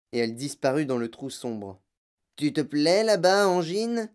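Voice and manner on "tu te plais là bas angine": higher, called-out question; exclaiming. A narrator's reading. Monsieur Salt calls to his wife down the hole, exclaiming. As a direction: call down playfully to someone below. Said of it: "s'exclama-t-il".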